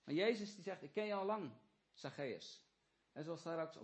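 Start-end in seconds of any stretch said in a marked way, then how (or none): 0.8-2.6 tender Jesus. Acted. Jesus speaks to Zacchaeus.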